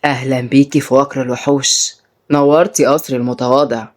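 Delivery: low, sly welcome; sly villain. Acted. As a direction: welcome a captive with a wicked smile. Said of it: "بابتسامة خبيثة".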